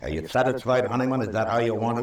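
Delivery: bitter, cornering challenge; angry accusation. Acted. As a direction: throw the blame right at him. Marshal confronts Honeyman over killing.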